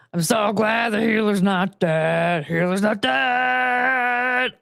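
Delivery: slow drawn-out mock chant; healer sound effect. Making a healer sound effect for the video, slow and drawn out. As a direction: stretch the line like a game sound cue. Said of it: "continuing to make the noise".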